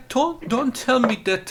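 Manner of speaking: ordinary delivery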